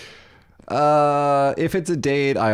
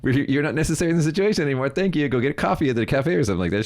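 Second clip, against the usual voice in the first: brisk dismissal; 6 semitones higher, faster than usual. Retold or imitated. Dismissing mom to the cafe.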